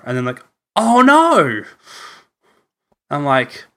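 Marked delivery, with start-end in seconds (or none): 0.8-1.6 high, loud exaggerated Aussie "oh no"; mock-Australian wail, pitched up and loud; mock Aussie accent. Retelling the joke about Australians, exaggerated Aussie accent. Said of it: "people think that Australians say".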